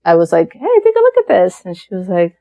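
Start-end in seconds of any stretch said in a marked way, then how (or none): 0.5-1.6 much higher, light calling voice; high, casual re-enacted call; retold call to wife. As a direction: pitch it up to call someone over.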